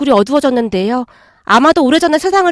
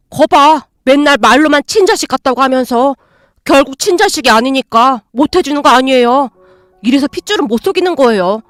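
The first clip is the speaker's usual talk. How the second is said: a sulky son snapping back at his mother; angry, talking back to mother. Acted. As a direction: throw it back at her bitterly. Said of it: "인상까지 쓰며 대들고 있었어요".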